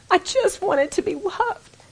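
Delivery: high, soft, slow confession; aching yearning. Real, not acted. Speaker confessing her yearning for daddy's love, soft high ache. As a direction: let it out slowly, a small wistful voice.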